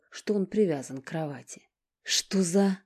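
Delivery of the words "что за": sharp curse, louder; cursing aloud. A narrator's reading. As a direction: spit out a curse in shock. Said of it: "выругался он вслух". (резкое ругательство вслух)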